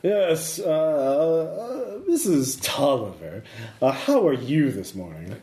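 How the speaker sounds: lightly posh upper-class lady; a hint of a grand lady of the house. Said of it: "your posh lady voice is the best".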